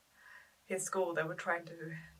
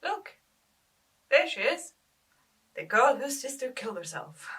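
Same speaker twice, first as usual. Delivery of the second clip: higher-pitched mimicry of pointing schoolmates; gossiping schoolmates; 5 semitones higher, 7 dB louder than usual. Schoolmates pointing her out in the lunch hall, mimicked gossip. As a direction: imitate a schoolmate pointing someone out. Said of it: "point me out to their mates".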